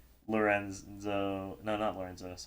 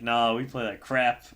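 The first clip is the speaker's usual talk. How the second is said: loud, drawn-out salty grumble, retold; slow, louder retold gripe; 2 semitones higher, 7 dB louder, slower than usual. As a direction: imitate a sore player dismissing their own play. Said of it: "they're salty".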